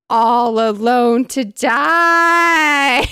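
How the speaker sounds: loud, high, drawn-out mock wail; hammed-up ghostly lament; anguished wail. A narrator's reading. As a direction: wail it slowly, stretching the last word. Ghost bride's accusing wail, read aloud.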